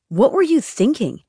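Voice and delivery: sharp scolding question; angry father. A narrator's reading. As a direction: snap at her in frustration.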